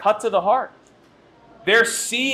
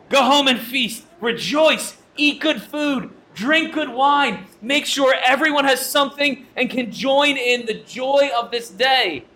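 joyful urging; 4 semitones higher than usual. Retold or imitated. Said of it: "They say".

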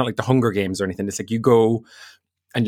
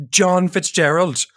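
disbelieving; 6 semitones higher, much slower than usual. Retold or imitated. Brother disbelieving the crush's name.

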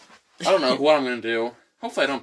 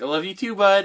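retold reply; 7 semitones higher, 5 dB louder than usual. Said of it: "I was just like".

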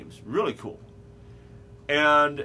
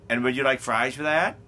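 upselling cashier; 4 dB louder than usual. Retold or imitated.

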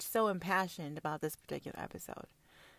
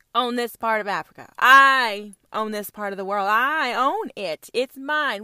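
imperious queen; 7 dB louder than usual. Acted. Comedian voicing the Queen claiming land.

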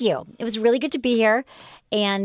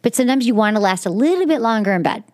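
louder, upbeat sponsor read; 4 dB louder than usual. Acted. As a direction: sell it like a host-read ad.

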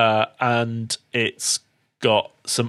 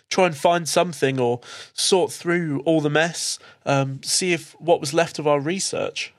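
a touch higher, earnest and weary; Cherry, shaken young scientist; 4 semitones higher than usual. Acted. Game master voicing Cherry to the players, lightly raised and earnest. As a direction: tell them what you found after the fire.

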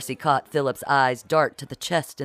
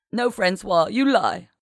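raised, higher-pitched accusing cry; tearful shout; 5 semitones higher, 4 dB louder than usual. A narrator's reading. Genevieve confronts Francois near tears, shouting. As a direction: throw the accusation back, voice lifted. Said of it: "Genevieve shouted, her eyes filling with tears".

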